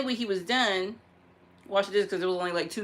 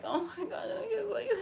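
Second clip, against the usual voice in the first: laughing almost crying; breaking up with laughter; 10 semitones higher, 6 dB quieter than usual. Real, not acted.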